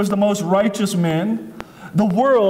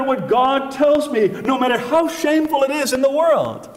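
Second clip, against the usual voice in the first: raised, ringing voice of defiance; defiant Jesus; 5 semitones higher than usual. Acted. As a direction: hurl it back at shame. Jesus defies shame, quoted aloud.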